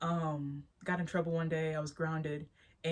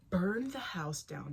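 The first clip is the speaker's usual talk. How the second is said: slow realization; slower than usual. Retold or imitated.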